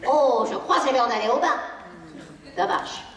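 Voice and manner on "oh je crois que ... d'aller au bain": airy, casual "Oh, je crois que c'est l'heure d'aller au bain"; light suggestion. Shown as a demonstration. Parent suggesting bath time to the child, lightly. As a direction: make it sound like a gentle discovery. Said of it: "Vous dites".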